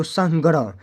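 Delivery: teacher's split of संग्रह as सं-ग्रह; syllables split. Shown as a demonstration. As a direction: sound out संग्रह in its two parts. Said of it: "ग्रह अलग हो गया, स अलग हो गया".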